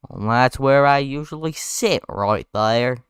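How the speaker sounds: slow, failed character impression; slow, wobbly attempt at a character voice. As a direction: badly attempt an impression, drawing it out. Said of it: "I cannot do that impression".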